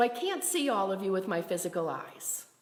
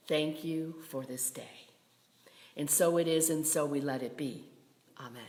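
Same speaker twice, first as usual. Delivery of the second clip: hushed, measured prayer with spaces between phrases; closing prayer; 2 semitones lower than usual. Real, not acted.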